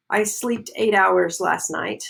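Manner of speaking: "slept" said as "sleeped", slowly; wrong past tense. Shown as a demonstration. Teacher demonstrating a learner's error, slept mispronounced as sleeped. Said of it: "that's wrong".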